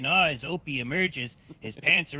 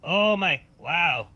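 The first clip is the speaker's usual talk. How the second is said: pleasured moan; 3 semitones higher, 4 dB louder, slower than usual. Acted. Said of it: "lets out a moan of pleasure".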